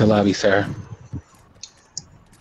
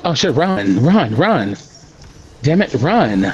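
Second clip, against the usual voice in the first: urgent, higher panicked run calls; being chased; 3 semitones higher, slower than usual. Real, not acted. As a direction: yell run while fleeing. Fleeing enemies in the game.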